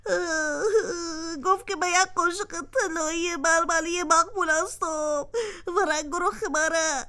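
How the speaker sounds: slow tearful retelling, sobs breaking in; crying. Acted. Spoon retells the golden spoon's insult, sobbing. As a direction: cry it out, dragging the last words. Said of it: "خود جگرخون نساز".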